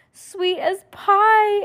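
high, slow sugary aunt voice; sweet aunt. Acted. Aunt cooing over Heidi's new smile, high and slow.

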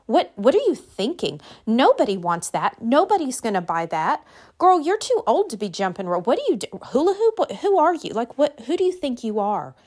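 incredulous scoffing, rising high on the hula hoop jab; mock disbelief at a friend's new hobby; mocking naysayer. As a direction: sneer like a doubting friend. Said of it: "you've had those people go".

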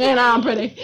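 lightly voiced cartoon show-off; a hint of a self-admiring cartoon hunk; Johnny Bravo. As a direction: play it vain, half laughing. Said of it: "I got all Johnny Bravo on us".

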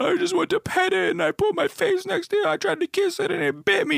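imitating a small child wailing to dad; little kid voice. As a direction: squeal it like a hurt six-year-old. Six-year-old self explaining to dad.

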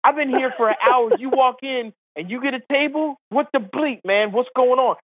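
outraged man at the hostess stand; angry golfer. Retold or imitated. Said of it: "looks at Omar, and goes".

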